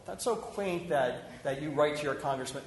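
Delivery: drip with patronizing sarcasm; condescending. Retold or imitated. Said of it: "And I'd say".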